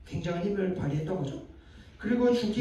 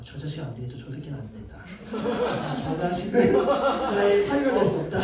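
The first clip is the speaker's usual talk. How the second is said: mock-angry father-in-law getting carried away, laugh creeping in; acted fatherly outrage; 5 dB louder than usual. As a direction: play a disapproving dad whose real feeling rises. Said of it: "진심이 올라가는데".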